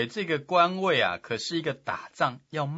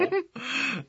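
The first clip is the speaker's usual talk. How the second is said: mock wail; 12 semitones higher than usual. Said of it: "他哭得更大声了".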